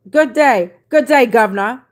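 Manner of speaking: loud, lightly Aussie good day; mock Australian greeting. Host greeting an Australian viewer, mock Australian accent. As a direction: greet him like a hammed-up Australian. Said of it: "All the way from Australia".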